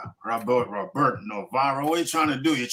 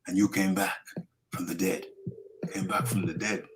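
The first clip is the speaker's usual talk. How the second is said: put-on Ugas accent; 2 semitones lower than usual. Reading a fighter's tribute to Spence, muddled accent. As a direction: read it out in a wobbly put-on Spanish-style accent. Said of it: "I thought I was doing Manny, then I thought I was doing Ugas".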